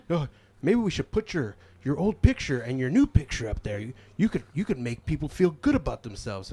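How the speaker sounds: mock cashier voice. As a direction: pitch it up like an eager clerk. Staff quoted, odd compliment.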